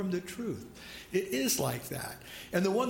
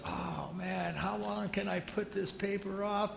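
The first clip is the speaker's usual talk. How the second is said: muttered aside; 6 dB quieter than usual. Retold or imitated. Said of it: "And he goes".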